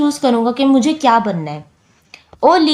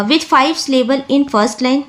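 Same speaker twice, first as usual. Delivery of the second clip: slow reading; 2 semitones higher, much slower than usual. Shown as a demonstration. Reads text slowly.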